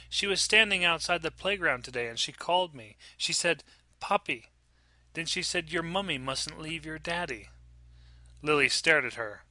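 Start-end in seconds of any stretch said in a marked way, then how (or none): 0.1-7.5 lightly voiced little girl, a touch higher; young daughter. Child telling mother about the lady, lightly voiced little girl. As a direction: recount it like an earnest small child.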